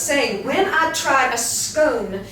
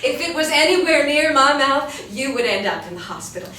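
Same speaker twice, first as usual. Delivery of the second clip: loud scornful laugh-shout; laughing angry comeback; 3 semitones higher, 5 dB louder than usual. Acted. Wendy shouts a mocking comeback at the fisherman. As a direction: fire back with a cackle.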